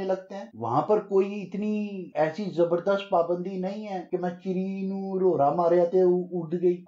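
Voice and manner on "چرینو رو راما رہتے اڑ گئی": lightly imitated old-city Lahori Punjabi; a touch of inner-Lahore Punjabi accent; inner-Lahore dialect. Speaker mimicking who counts as a Lahori, inner-Lahore dialect. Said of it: "اندرون لاہور کی یہی زبان".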